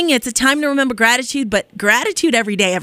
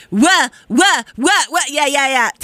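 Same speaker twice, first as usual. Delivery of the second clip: excited riffing; 4 semitones higher than usual. Real, not acted. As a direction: belt out nonsense syllables for fun.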